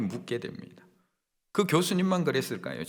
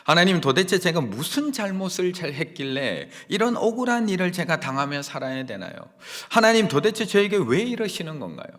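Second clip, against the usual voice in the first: aggrieved plea; 5 semitones higher, 4 dB louder than usual. Retold or imitated. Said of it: "제가 왜 이런 일을 당해야 하나요".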